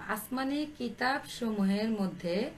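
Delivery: measured pace with pauses between phrases; slow dictation. Real, not acted. Teacher dictating the answer for pupils to write, slowly. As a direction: dictate it slowly for note-taking. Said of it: "আমি আস্তে আস্তে বলছি".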